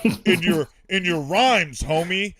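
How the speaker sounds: lightly hammed-up earnest dad; American Dad voice. Dad praising a rapper's rhymes, mock-earnest voice. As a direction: play a dad trying to sound hip. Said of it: "as I do my American Dad voice".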